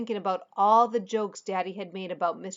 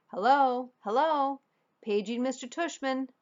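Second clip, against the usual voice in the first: higher, hammed-up old lady on the loudspeaker; fake old lady voice; 6 semitones higher, 3 dB louder than usual. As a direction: play a silly old lady paging over the intercom. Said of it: "He was using a fake high old lady voice".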